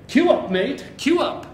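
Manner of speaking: put-on British accent. Teacher imitates English locals telling him to queue, mock British accent. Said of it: "when I get to, uh, England and they say".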